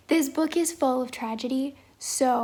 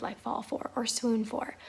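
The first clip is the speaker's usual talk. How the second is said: breathy whispered aside, hushed; soft whisper; 6 dB quieter than usual. Real, not acted. To the camera about swooning, a hushed whisper.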